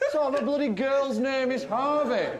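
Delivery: mock the name while still laughing; laughing mockery. Mocking the name Harvey.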